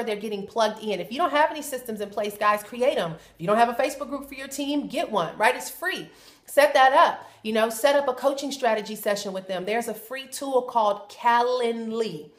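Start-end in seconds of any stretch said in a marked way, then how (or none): 3.1-12.3 talking while chewing gum. Real, not acted. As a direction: gum in the mouth. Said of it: "Sorry, I got gum in my mouth".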